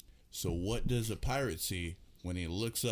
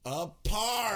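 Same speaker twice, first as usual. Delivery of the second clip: much higher, loud "A par!" like a pirate's arr; pirate punchline call; 11 semitones higher, 4 dB louder than usual. Acted. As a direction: shout the pun like a proud pirate. Pirate joke punchline called out.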